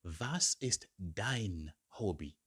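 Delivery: Was ist dein Hobby said slowly, word by word; slow teacher drill; slow model phrase. Shown as a demonstration.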